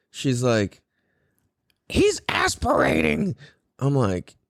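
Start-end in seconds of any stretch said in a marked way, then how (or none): 1.9-3.4 high, slow mock shriek; alarmed old lady. Mocking the old lady at the pool, high alarmed cry. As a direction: mimic a fussing old woman sounding the alarm. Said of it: "this fucking old lady".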